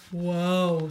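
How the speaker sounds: a slow-witted wow; Patrick. A narrator's reading. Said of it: "said Patrick".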